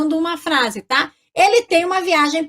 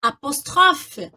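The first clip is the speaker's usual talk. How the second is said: slow spelling demo; 3 semitones higher, much slower than usual. Shown as a demonstration. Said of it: "olha só".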